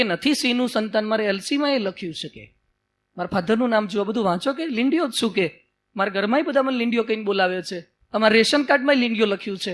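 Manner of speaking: small creature insisting shyly; meek lion cub. Acted. Cub shows the lion its ID card, meek and soft.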